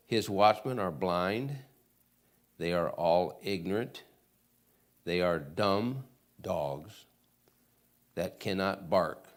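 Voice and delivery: slow, measured reading of scripture. Acted. Preacher reading Isaiah aloud to the congregation, slow and measured. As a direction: lay out each line of the verse slowly.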